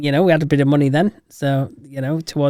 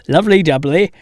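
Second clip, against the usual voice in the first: put-on London accent; 4 dB louder than usual. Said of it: "my attempt at being that London".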